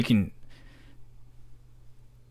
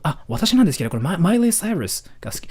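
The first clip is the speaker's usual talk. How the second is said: foreigner's Japanese; 6 semitones higher, much faster than usual. Shown as a demonstration. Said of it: "But they say, like".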